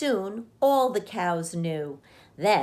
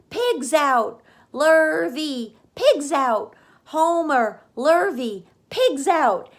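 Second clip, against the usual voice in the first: high, loud alarmed shouts; shouting; 8 semitones higher, 6 dB louder than usual. A narrator's reading. Mrs. Zuckerman shouting for the men, loud alarm. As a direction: raise the alarm, pig is loose. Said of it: "she immediately shouted for the men".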